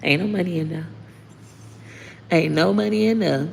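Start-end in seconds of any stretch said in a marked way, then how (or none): 2.3-3.5 higher, put-on sassy voice; hammed-up taunt at would-be hackers; sassy repeat. Mocks viewers prying for bank details, higher sassy taunt. Repeats joke about empty account.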